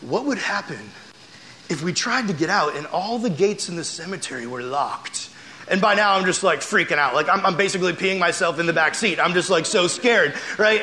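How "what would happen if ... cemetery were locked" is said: softer, hushed creepy question; spooky storyteller. Retold or imitated. Big brother scaring sisters with locked gates, hushed and softer. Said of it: "talking the story up worse and worse".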